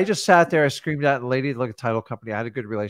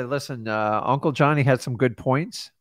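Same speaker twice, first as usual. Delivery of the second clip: calm reassuring. Shown as a demonstration. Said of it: "You just filter what they say and say".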